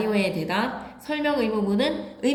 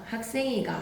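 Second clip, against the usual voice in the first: Gyeongsang dialect; 3 semitones higher, 4 dB quieter than usual. Shown as a demonstration. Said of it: "다 아로 물어봅니다".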